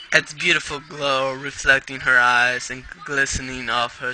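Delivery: story read in an attempted British accent. Reader narrating a pony story for listeners, attempted British accent. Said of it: "I read in a British accent".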